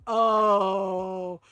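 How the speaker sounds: loud, low gasp of shock. Retold or imitated. Husband hears his brother-in-law insult his sister, loud shocked gasp. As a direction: react like someone just said the unforgivable.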